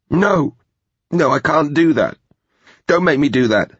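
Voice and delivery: high, desperate female pleading. A narrator's reading. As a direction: beg in terror, voice high. Terrified woman begs not to.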